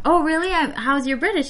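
a hint of a British accent. Host retells the actor's teasing question, mock British accent. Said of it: "him with his fine British, British accent".

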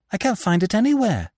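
put-on high-pitched dismayed young man. A narrator's reading. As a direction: wail it helplessly, in dismay. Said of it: "running back in dismay".

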